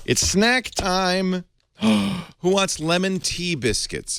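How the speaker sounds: high, drawn-out singsong call; playful announcing. Pretend. Host offering snacks to the panel, playful high call. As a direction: call them to snacks, stretching the words.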